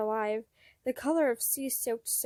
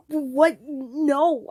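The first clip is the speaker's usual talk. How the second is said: quick denial; 3 semitones higher, 8 dB louder than usual. Acted. Defensive denial.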